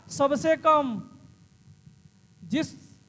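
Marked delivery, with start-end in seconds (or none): 0.1-1.1 "सबसे कम" drawn out slowly and stressed; teacher stretching the answer; slow emphasis. Shown as a demonstration. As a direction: lean on "सबसे कम" slowly so it sticks. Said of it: "कितना खुलेगा".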